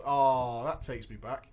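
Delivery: ordinary talk, nothing marked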